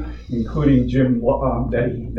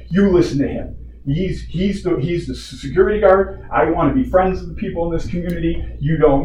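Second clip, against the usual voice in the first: higher-pitched, insistent mock scolding; retold yelling wife; 5 semitones higher than usual. Wife telling husband to obey the guard, imitated yelling. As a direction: imitate a wife laying down the law. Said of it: "my wife starts yelling at me".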